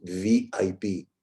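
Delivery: low and slow from the throat; amplified throat voice. Shown as a demonstration. Coach repeating the amplified throat take. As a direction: bring it down into the throat, confidently. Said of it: "it sounds amplified".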